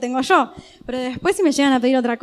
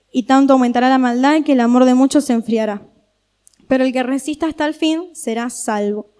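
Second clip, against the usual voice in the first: lectura pausada y solemne del evangelio; lectura bíblica. Acted. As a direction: leer la Escritura con firmeza ante la congregación. Lectura de Mateo 24. (predicadora lee Mateo a la iglesia, voz solemne)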